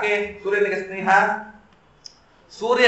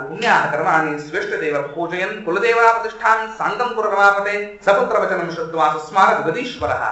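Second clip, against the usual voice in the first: shloka recitation. Acted. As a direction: recite each syllable deliberately. Sanskrit verse recited. (ನಿಧಾನವಾದ ಶ್ಲೋಕ ಪಠಣ)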